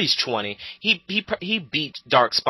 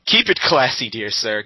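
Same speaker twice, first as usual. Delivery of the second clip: mock the troll with fake politeness; mock polite sarcasm; 4 dB louder than usual. Real, not acted. Mocking troll's insults.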